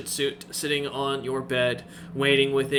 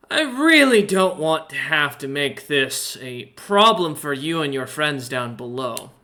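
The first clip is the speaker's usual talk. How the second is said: merchant voice; 4 dB louder than usual. Acted. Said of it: "he continues and goes".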